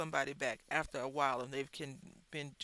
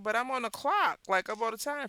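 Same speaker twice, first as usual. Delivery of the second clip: indignant DoorDash man; 6 semitones higher, 7 dB louder than usual. Retold or imitated. DoorDash man protests to worker.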